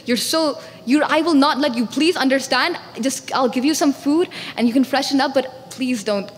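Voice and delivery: firm, mildly insistent protest; stubborn refusal. Acted. Stubborn mother refusing to let a visitor see her son, insistent. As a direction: stand your ground, then ease into a plea. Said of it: "so stubborn".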